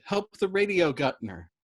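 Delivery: high, pleading call; begging. Acted. Dobbs begs Yossarian, pleading. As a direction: plead for the gunner. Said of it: "Dobbs begged".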